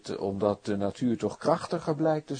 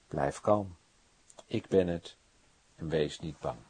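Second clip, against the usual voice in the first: calm reassurance; 6 semitones lower than usual. Acted. Jesus calming frightened disciples.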